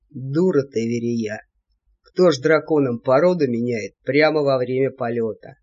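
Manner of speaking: low grumbling reproach; old devil scolding. A narrator's reading. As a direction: scold the foolish niece. (ворчливый упрёк чёрта)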